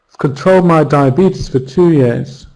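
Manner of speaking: "I've" shrunk to a bare v before "controlled"; I've nearly dropped. Shown as a demonstration. Teacher modelling fast speech, "I've" barely audible. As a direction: rush past "I've" to the stress in "controlled". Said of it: "We might not even hear it".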